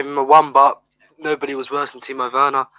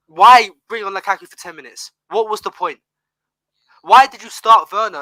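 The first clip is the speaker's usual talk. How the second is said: rising frustration, a bit louder; exasperated fan ranting; getting heated; 3 semitones higher, 4 dB louder than usual. Real, not acted. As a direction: vent real irritation at the manager. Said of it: "I know I'm getting a bit heated".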